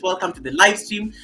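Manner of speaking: ordinary talk, nothing marked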